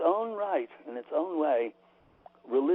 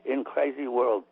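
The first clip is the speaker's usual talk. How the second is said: imitating a Japanese teacher's accent; broken English in a Japanese accent. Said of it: "I'll do his Japanese accent as best I can".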